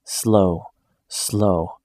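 low, slow inner chant; calming mantra. A narrator's reading. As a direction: talk yourself down, slowly. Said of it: "He is thinking".

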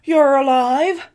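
slow, high, loud amazed question; stunned disbelief. A narrator's reading. Husband finding his wife alive, stunned and slow. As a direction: let the wonder break through.

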